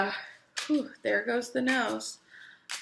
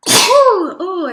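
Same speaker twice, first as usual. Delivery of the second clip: sudden loud sneeze; sneezing; 8 semitones higher, 15 dB louder than usual. Real, not acted. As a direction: sneeze then gasp oh. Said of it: "And I sneezed into my hands".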